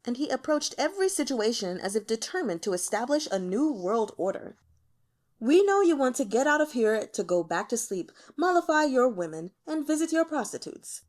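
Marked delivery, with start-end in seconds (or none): 5.4-11.0 weary. Acted. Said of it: "the emperor said wearily".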